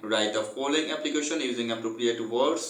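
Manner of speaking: very slow, word-by-word textbook reading; reading aloud. Acted. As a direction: dictate it slowly so students can follow. Reads textbook instruction aloud.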